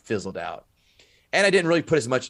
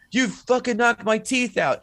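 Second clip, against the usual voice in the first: high, slow, mock outraged wail; toothless movie thug; 12 semitones higher, 3 dB louder, slower than usual. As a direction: imitate a guy who just spat out teeth. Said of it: "He spits out teeth. He goes".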